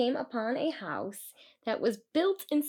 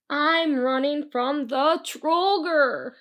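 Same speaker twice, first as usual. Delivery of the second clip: put-on scared boy; 5 semitones higher, 5 dB louder, slower than usual. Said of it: "Christian replied".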